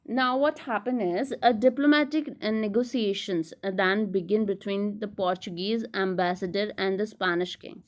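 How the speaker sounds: slow, measured read-aloud of study notes; deliberate lecture-room reading. Acted. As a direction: read the text out slowly and deliberately. Reads English summary aloud.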